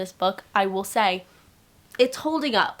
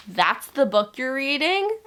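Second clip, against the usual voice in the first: surprised question; 5 semitones higher than usual. Retold or imitated. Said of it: "and she goes".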